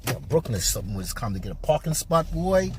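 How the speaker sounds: imitating Spence. Vlogger imitates Spence talking on TV, fast and low. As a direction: rattle it off like Spence on TV. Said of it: "He said".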